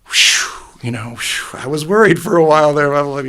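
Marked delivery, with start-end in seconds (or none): 0.1-1.6 relieved whew. Retold or imitated. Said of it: "And she would say".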